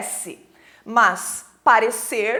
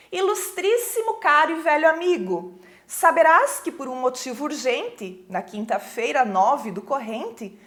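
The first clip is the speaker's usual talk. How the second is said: lightly formal reading of a letter in verse; poem recitation. Acted. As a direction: read out the verse with measured phrasing.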